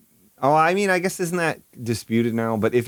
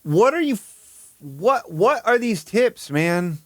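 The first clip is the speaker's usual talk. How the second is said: exasperated disbelief; 7 semitones higher, slower than usual. Real, not acted. Exasperated at the tips.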